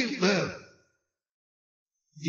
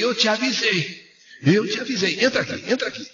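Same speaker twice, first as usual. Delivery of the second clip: mock half-yell; 6 semitones higher than usual. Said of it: "eu até quase que gritei".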